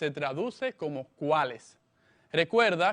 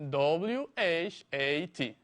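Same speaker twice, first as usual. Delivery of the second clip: slow letter-by-letter dictation; each letter given its own beat; spelling out. Shown as a demonstration. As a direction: spell slowly for a learner taking notes. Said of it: "se escribe".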